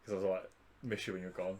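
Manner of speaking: low, soft retold greeting; muted relief. Welcoming James back to work, quiet relief. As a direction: say it low, under-playing the joy.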